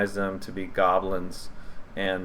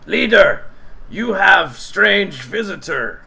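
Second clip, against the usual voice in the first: high, loud goblin call; 11 semitones higher, 7 dB louder, slower than usual. Acted. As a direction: announce the visitor like a goblin servant. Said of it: "And he says".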